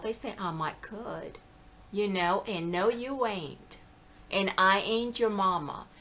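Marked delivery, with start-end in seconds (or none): 0.4-1.4 slow, softer Southern imitation; Southern accent. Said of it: "white people in the South". 2.7-3.8 slow Southern denial, imitated; Southern accent. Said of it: "they talk just like that". 4.6-5.9 lightly imitated Southern retort; Southern accent. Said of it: "they talk just like that".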